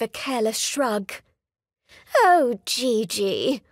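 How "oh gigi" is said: slow, sighing fond exasperation. Acted. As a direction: let it out on a slow sigh. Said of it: "her mother sighed".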